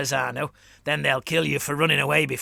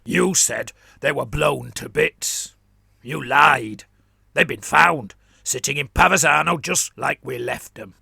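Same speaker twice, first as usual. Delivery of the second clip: angry warboss; 9 dB louder than usual. Acted. Warboss calls Gurmlis a liar, loud and angry. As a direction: bellow the charge of lying.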